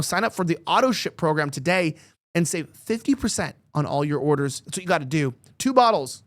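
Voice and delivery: scripted radio-style pitch; sponsor ad read. Real, not acted. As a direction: sell the product point by point, stressing key claims. Reads a supplement sponsor ad.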